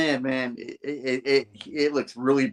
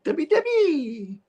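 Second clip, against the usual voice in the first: high calling out; slower than usual. Acted. Voicing a character calling out.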